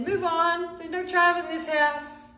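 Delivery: loud, high shouted order; calling out. A narrator's reading. Captain calls out to his men, loud shouted order. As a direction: call it out so all the men hear. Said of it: "called out to his men".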